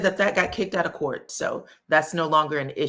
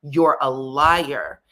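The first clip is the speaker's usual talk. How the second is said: imitating angry father; 2 semitones lower, 6 dB louder, much slower than usual. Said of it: "you hear the father saying".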